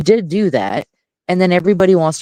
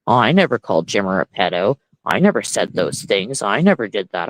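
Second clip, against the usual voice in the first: lower, whiny mocking denial; mock Andy Cruz denial; 6 semitones lower than usual. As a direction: mimic his innocent denial, pitched down. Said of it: "Same with Andy Cruz".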